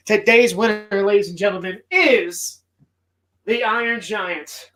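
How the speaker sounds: grand reveal of the winner; announcer. Acted. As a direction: present the winner like a host. Announcing the winning film.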